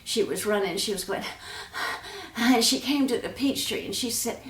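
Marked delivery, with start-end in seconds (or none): 1.3-2.3 breathless sigh. Acted. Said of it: "She was getting out of breath".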